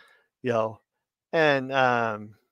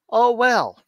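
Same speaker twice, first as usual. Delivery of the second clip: oh well; 9 semitones higher, 6 dB louder than usual. Real, not acted. Shrugging off teasing.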